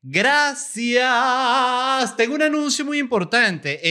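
high, loud, sung-out thanks into big news; hammed-up announcement. Host thanks subscribers and announces news, hammed-up high proclamation. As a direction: pitch it way up and proclaim it. Mock-grand announcement to listeners.

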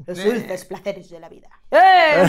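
mock Spaniard ending in a big loud shout; hammed-up Spanish accent. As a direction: parody Castilian accent, burst out on the final Eh. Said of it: "estamos imitando".

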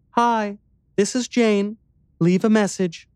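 put-on a tender young woman's phone message; soft sweet girl on voicemail; soft, gentle voicemail greeting. A narrator's reading. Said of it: "Her soft, her tender, her sweet, her gentle voice".

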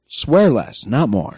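automated-announcer style guideline read; measured announcer delivery with swooping emphasis. Shown as a demonstration. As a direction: read the rules like an official recorded announcement. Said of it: "I'm using my announcer voice".

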